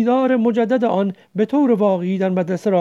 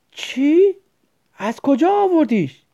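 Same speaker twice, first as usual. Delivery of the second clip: higher and louder, thrilled; excited shout; 6 semitones higher, 3 dB louder, slower than usual. A narrator's reading. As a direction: cry out in delight. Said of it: "قاسم هیجان زده داد زد".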